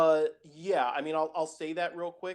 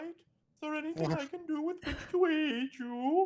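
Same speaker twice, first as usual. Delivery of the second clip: very high put-on Swedish-accented voice; 13 semitones higher, 3 dB quieter than usual. Voicing the character Sylvan, Swedish Chef-like voice. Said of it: "why does Sylvan sound like the Swedish chef".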